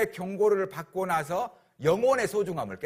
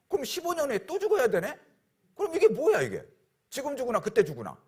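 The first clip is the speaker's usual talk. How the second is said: dismayed realisation; 8 semitones higher than usual. Retold or imitated. King's dismayed thought, high.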